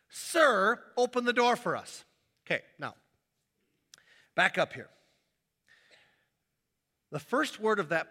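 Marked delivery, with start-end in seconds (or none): 0.1-2.0 a raised, begging plea at the door; pleading stranger. Acted. Stranger at the door pleading with the house owner, raised voice. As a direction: beg the owner to open up, louder.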